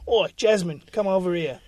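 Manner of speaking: lightly voiced Cockney chat-up, slow; a hint of a London geezer flirting; Danny Dyer as Aladdin. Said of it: "Danny Dyer as Aladdin".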